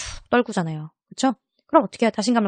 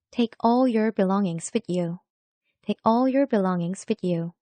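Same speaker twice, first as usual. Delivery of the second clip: slow, even announcer read of "Take all your belongings with you"; subway announcement; much slower than usual. Retold or imitated. Teacher imitates the subway announcement, slow and even. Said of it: "어디서 들어봤어요".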